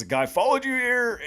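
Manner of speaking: high-pitched, incredulous mock outrage; indignant disbelief. Recapper quoting the husband's reaction, indignant disbelief. Acts out Mike's alarmed reply.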